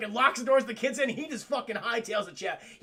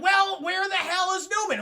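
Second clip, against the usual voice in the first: louder, higher mock outburst; exasperated retelling; 10 semitones higher, 6 dB louder than usual. Recapping the park owner hunting his missing employee, exasperated. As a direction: imitate an exasperated boss demanding answers. Retold frustrated boss in movie recap.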